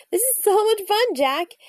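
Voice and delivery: raven croak. A narrator's reading. Annie to Jack on the window ledge, lightly croaked. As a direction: start high, in delight. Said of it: "she croaked".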